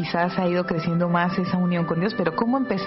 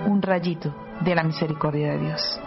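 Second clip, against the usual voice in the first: spoken prayer. Real, not acted. Host invoking the Holy Spirit for the listeners, praying. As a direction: pray it aloud, phrase by phrase.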